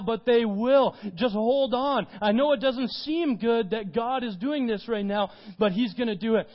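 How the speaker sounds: Jesus promising Peter with rising fervour; earnest reassurance. Acted. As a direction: urge him to hold on, loud and earnest.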